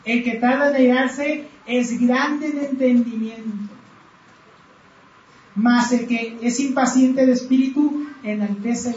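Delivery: "El que tarda en airarse" leído muy despacio, palabra por palabra; lectura lenta. Shown as a demonstration. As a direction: lee el proverbio con calma y pausado. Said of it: "Proverbios catorce veintinueve dice". (lectura pausada del versículo)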